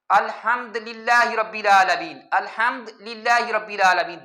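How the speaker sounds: الحمدللہ with the dal held silent, no vowel after it, slow; teacher showing the mistaken reading of الحمدللہ, slow demo; wrong sukoon on dal. Shown as a demonstration. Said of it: "دال کو ساکن کر دینا بھی ٹھیک نہیں ہے".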